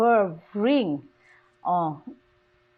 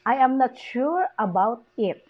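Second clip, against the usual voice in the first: "sure" raised, "it" falling; downfall pitch. Shown as a demonstration. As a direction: peak on "sure", drop by "it". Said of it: "it is the downfall pitch".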